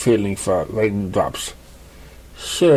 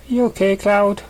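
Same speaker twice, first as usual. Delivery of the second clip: much higher, gentle worried question; concerned mare voice; 10 semitones higher than usual. Acted. Raindrops asks Cloud if he is okay, much higher and concerned. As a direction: check on a friend.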